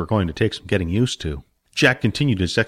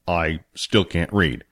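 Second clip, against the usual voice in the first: slow, lower, a touch sad; sadly; 4 semitones lower, slower than usual. Acted. Billy confessing to Jack he cannot read, slow and mildly sad. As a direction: admit it with mild shame, slowly. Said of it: "Billy said sadly".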